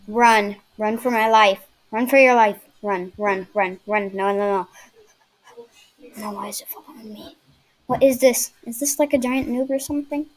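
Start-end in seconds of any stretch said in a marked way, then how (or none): 0.1-4.7 louder, frantic urging to run; panicking gamer. Real, not acted. Chased by giant noob. 6.2-7.4 fast scared whisper; panicking gamer. Real, not acted.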